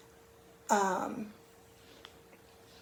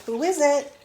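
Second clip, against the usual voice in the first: Granny calling out; 6 semitones higher, 5 dB louder than usual. Acted. Granny voiced at door.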